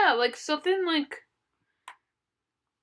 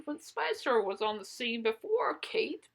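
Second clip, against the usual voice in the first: whisper; 3 semitones lower, 9 dB quieter than usual. Real, not acted. Whispered aside.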